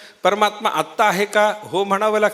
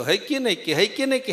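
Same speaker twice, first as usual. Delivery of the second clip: mock donkey doubt; 4 dB quieter than usual. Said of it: "लांबलचक असतो".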